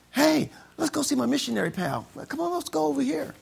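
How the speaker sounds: high, loud rallying call; eager holler to come along. Acted. Acts out calling coworkers along.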